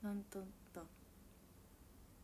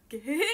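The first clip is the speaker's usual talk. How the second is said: louder mock gehehe cackle; creepy gehehe laugh; 9 dB louder than usual. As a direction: cackle like a sly goblin. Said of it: "みたいな笑い方をしたら".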